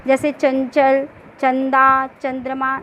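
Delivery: चंचल, चंदा, चंद्रमा with the nasal sound clearly voiced through the nose; nasal demo words. Shown as a demonstration. Teacher demonstrating anusvara words to students. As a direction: sound each word out for the class. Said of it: "नाक से उच्चारण हो रहा है ना".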